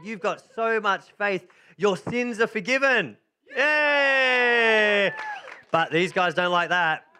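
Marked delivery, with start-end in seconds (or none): 0.0-3.2 mild Jesus blessing. Acted. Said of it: "Jesus saw his faith and said". 3.6-5.1 high, loud shout of joy; excited cheer. Real, not acted. Narrator cheering the healed man, excited shout.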